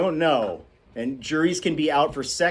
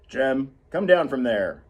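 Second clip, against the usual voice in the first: calling out; 4 dB louder than usual. Acted. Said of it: "he called".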